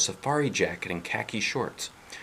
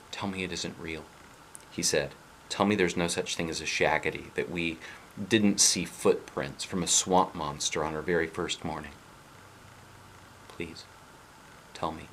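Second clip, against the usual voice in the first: pleading; 5 dB quieter than usual. Acted. Scared boy pleading with sister.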